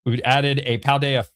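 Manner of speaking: hiccups breaking the words; hiccuping. Real, not acted. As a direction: talk through hiccups. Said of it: "Oh my God, I'm hiccuping".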